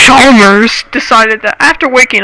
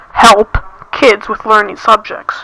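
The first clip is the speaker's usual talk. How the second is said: sarcastic; slower than usual. Real, not acted. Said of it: "I am being sarcastic".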